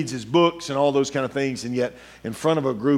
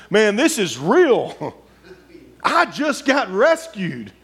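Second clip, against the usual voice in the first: amazed laugh; 8 semitones higher, 5 dB louder, much slower than usual. Acted. Peter realizes he's freed.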